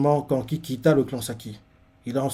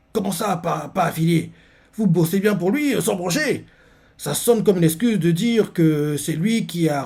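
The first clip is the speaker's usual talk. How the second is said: Shin confronting; 5 semitones higher, 3 dB louder than usual. Retold or imitated. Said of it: "Shin fait".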